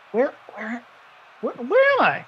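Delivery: confused Minotaur, barely voiced; lightly voiced confused beast asking; manly Minotaur voice. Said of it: "in, like, a manly Minotaur voice".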